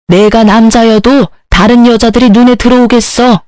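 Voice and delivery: lightly voiced, reproachful mother-in-law; blaming mother-in-law. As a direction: pin the blame on the daughter-in-law. 시어머니가 며느리 탓을 함. (며느리 탓하는 시어머니 말투)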